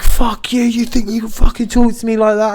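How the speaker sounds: high-pitched imitation of an outraged woman; angry retort. Angry customer snaps back at pub worker, mock outrage. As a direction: throw the insult back in mock fury.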